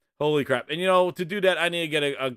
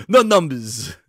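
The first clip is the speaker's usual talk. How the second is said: the same words punched louder; louder mock refusal; 6 dB louder, slower than usual. Imitating Phil waving off numbers, louder. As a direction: hammer the refusal home.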